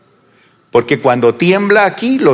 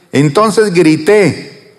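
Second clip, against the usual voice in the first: shouted cry; 3 semitones higher, slower than usual. Shown as a demonstration. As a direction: belt out the prophet's cry. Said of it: "digamos todo lo que dijo Isaías".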